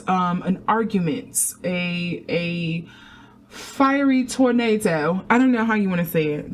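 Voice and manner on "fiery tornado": slow, hammed-up British accent, higher; horrible British accent. Stuck for a word, jokily reaches for a bad British accent. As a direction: draw it out in bad mock British. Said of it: "That was a horrible British accent".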